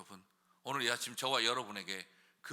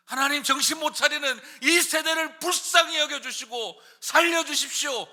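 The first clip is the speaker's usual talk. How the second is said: loud, high, straining cry; shouting prayer; 12 semitones higher, 9 dB louder than usual. Shown as a demonstration. Preacher crying out for this generation, shouting. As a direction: strain your neck crying out. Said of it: "목에 핏대를 올리고 건방지게 기도하라".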